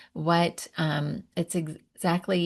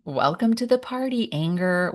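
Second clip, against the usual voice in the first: high, bright-voiced welcome to the emotion; playful, high welcoming call; cheerful welcome; 3 semitones higher than usual. Shown as a demonstration. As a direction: greet the anger like a party guest. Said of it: "You're trying to acknowledge the emotions".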